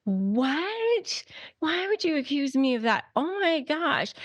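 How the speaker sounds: high, fast mock outrage, clutching the pearls; a hammed-up gasp of fake offense. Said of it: "the clutching the pearls".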